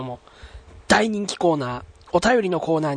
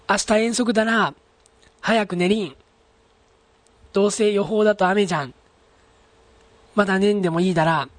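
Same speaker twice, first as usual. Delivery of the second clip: amateur Mikawa dialect; 3 semitones higher than usual. Shown as a demonstration. Radio host reading out example sentences, lightly imitated Mikawa dialect. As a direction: try Mikawa dialect as a non-native. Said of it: "僕はネイティブではないのでうまいこと喋れませんが".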